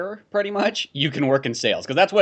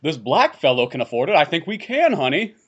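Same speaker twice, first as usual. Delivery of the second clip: rich white customer. Retold or imitated. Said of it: "a rich white person would be like".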